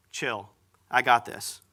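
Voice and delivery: slow, low, laid-back tough guy; cool gangsta. Retold or imitated. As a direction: brush off the panic like a gangster. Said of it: "the most gangsta moment of Jesus".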